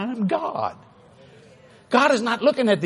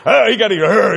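mock lion roar, a little louder; lion-like growl; 5 dB louder than usual. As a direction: imitate a man growling like a lion. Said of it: "you're like a lion".

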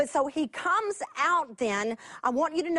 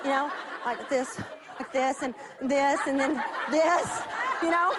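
laughing. Real, not acted. Acting out charades, laughing.

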